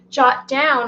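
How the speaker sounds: hurried, blurting out "jot down"; speaking too fast. Real, not acted. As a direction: rush "jot down" after tripping over the words. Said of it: "I'm speaking too fast".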